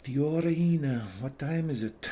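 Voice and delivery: loud high call across the room. Real, not acted. Asking a colleague the time, calling out. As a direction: call to someone off mic.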